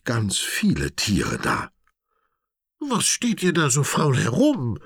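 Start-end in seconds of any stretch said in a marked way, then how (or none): 2.8-4.8 much higher and louder mock-scolding call; high booming-in-fun elephant shout. A narrator's reading. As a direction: rouse the lazy elephants playfully. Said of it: "ruft Tanja den anderen Dickhäutern zu".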